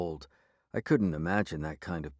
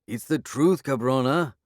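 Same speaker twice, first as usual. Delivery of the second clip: higher, louder furious insistence; angry protest; 6 semitones higher, 6 dB louder than usual. A narrator's reading. Werewolf angrily insisting to the sheriff he tells the truth. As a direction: lunge at her with the words.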